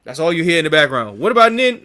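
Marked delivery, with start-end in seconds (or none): 1.2-1.8 high plaintive question. Retold or imitated. Background voice in credits.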